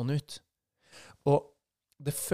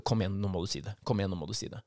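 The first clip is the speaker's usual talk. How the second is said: low, insistent inner nagging; mild urgent repeated coaxing; urging self; 4 semitones lower, much faster than usual. Retold or imitated. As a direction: push yourself to say it, lower.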